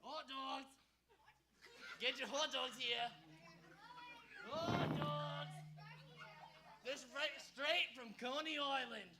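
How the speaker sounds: stadium vendor hawking. Acted. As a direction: hawk it like a ballpark vendor. Vendor calling out wares.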